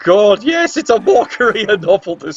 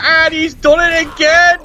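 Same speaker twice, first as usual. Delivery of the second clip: higher-pitched, drawn-out exclamation; exasperated play-by-play; 4 semitones higher than usual. Real, not acted. Commentator reacts to another failed roll, exasperated. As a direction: call the blunder high and slow.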